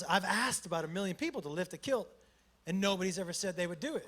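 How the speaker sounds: low, soft quoted line; quiet. Retold or imitated. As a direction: drop the voice right down. Quoting the guy quietly.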